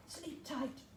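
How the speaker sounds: soft goodnight. Acted. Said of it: "said Santa".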